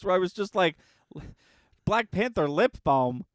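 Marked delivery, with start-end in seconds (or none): 1.8-3.2 loud and climbing much higher with each question; rising squeal of disbelief at the product; incredulous outburst. Retold or imitated. Retold disbelief at lip balm.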